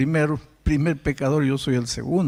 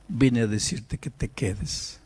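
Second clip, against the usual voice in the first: gentle plea; 4 semitones lower, 4 dB quieter, slower than usual. Retold or imitated. Pastor gently asks boy to stay.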